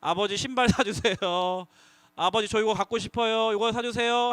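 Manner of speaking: 천천히 공손하게 조르듯; 용돈을 바라며 애교 있게 부탁해; 조르는 아이. Shown as a demonstration. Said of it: "허락받을 때". (허락받으려는 아이의 조르는 말투)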